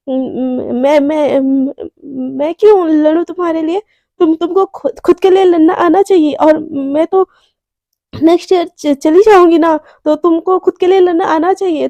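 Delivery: flustered stammer, tripping over the first words; shy, awkward. Retold or imitated. Garima bashfully telling Priyanka to fight for herself, awkward stammer. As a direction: act embarrassed and cover it with protest. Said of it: "उसको थोड़ा-सा shyness feel हो जाता है".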